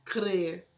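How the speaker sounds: "Crer" with a tapped R after the C; tongue-flipped R. Shown as a demonstration. Teacher repeating after folding the tongue, "Crer" with tapped R. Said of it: "Dobra a língua".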